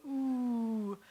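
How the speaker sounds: slow "ooh" like a punch to the gut; winded ooh. Shown as a demonstration. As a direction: groan "ooh" as if hit in the stomach. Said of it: "pitcher pitches the ball into your stomach".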